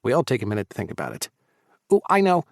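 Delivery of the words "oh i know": high eager pipe-up. A narrator's reading. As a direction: chirp the idea. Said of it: "Fulton pipes up".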